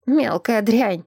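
slow, spat-out insult; spitting angry old man. Acted. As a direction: spit the words out slowly. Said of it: "брызжа слюной".

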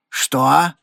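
wheezed, forceful question; hoarse. A narrator's reading. Hefferman reacts to Regan's challenge, hoarse. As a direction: rasp it out in disbelief. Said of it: "прохрипел Хефферман".

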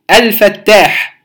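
الفتاح slow, with a clear ل before the ف; إظهار اللام. Shown as a demonstration. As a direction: slowly sound the article's ل in "الفتاح". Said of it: "نظهر اللام الساكنة". (الفتاح ببطء مع إظهار اللام)

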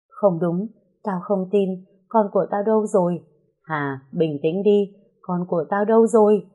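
rising into anguished cry; frantic denial. Acted. Mother refuses the news. (người mẹ gào hỏi con đâu)

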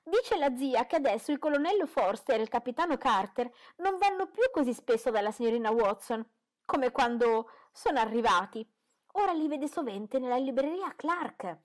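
put-on a giddy girl spilling gossip; eager young girl. A narrator's reading.

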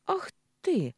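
high, loud playful outrage; teasing "Ах ты!" before a punch; mock indignation. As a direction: pretend to be offended. Маруся mock-indignant, punches him.

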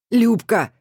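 a loud, high call of the name. Acted. Tamarka loudly calls Lyuba by name, pushing her. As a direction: hail her loudly across the yard. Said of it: "хрипло захихикала".

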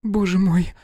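high horrified exclamation; shocked gasp. A narrator's reading. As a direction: react to the killing in shock. Shock after shooting.

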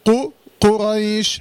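قريش recited slowly with a full, heavy ق; heavy qaf. Shown as a demonstration. Teacher showing the heavy letter in قريش, emphatic recitation. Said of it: "حرف القاف مفخم".

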